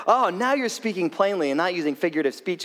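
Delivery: mildly enthusiastic quote; a touch of eager relief, as the disciples; excited disciples. Acted. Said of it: "very excitedly, very enthusiastically".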